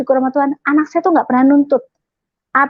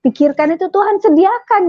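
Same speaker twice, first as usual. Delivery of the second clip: tearful prayer; 5 semitones higher than usual. Retold or imitated. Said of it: "saya nangis".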